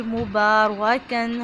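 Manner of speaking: मुबारकन slow, with a full heavy रा. Shown as a demonstration. Teacher models मुबारकन, heavy रा. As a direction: draw out मुबारकन with a thick रा. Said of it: "रुआ को पुर पढ़ेंगे".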